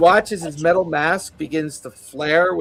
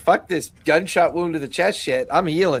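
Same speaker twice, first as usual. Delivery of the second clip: usual speaking voice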